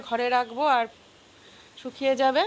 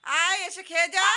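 raised voice, higher, calling the monkey back; coaxing call to a frightened monkey, pitched up; 5 semitones higher than usual. Real, not acted. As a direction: call after him to come back and eat.

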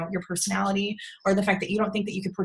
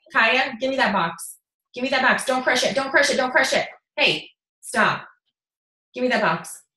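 real scolding. Real, not acted. Stopping a child from crushing a box, scolding.

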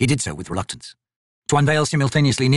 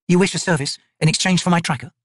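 higher wary wizard; wizard's bargain; 6 semitones higher than usual. Acted. Quick Ben to the chained figure, bargaining. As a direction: press the bargain carefully. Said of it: "Quick Ben said".

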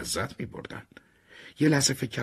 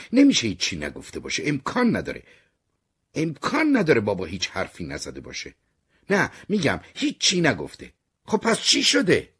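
louder and higher, pressing harder; insistent rising argument; 5 semitones higher, 5 dB louder than usual. Acted. Jasper presses the redhead at the café, rising angrily. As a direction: push back, voice climbing to a near shout.

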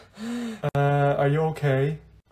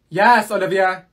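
exasperated; 3 semitones higher, 7 dB louder, slower than usual. Real, not acted. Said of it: "Are you mad?".

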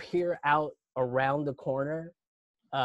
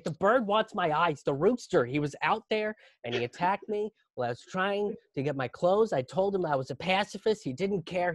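panicked. Retold or imitated. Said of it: "And I'm just losing it".

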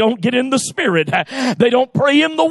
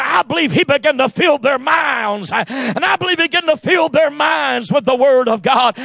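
full-force preaching; 3 semitones higher than usual. Acted. Pastor preaching the Word to the church, full force. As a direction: preach it to the congregation, building.

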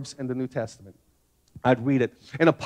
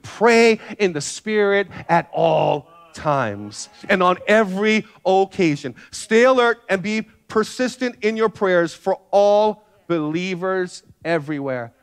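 slow, deliberate reading of the verse; measured Bible reading; scripture reading; slower than usual. Acted. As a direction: read each word out like holy text. Reads scripture aloud.

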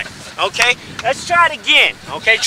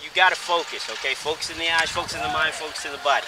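quiet sensei voice; 8 semitones lower, 11 dB quieter, faster than usual. Acted. Karate sensei coaching focus.

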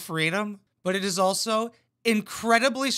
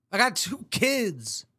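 mock rapper dad; 6 semitones higher than usual. Mocking rapper dad yelling at kids.

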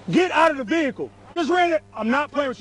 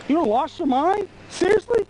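disbelieving question; 4 semitones higher than usual. Real, not acted. Officer disbelieving the driver's actions.

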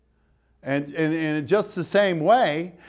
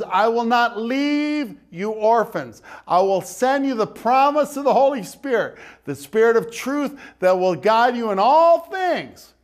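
preaching Jesus' words; 6 semitones higher, 4 dB louder than usual. Acted. Preacher voicing Jesus' promise.

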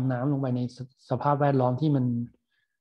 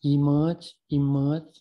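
slow spelled-out word; much slower than usual. Shown as a demonstration. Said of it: "ก็อย่างเงี้ย".

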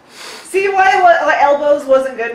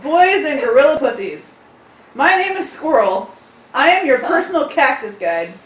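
chipper tour guide announcement. Acted. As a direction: read it like a cheesy tour guide. Mock tour guide parody read.

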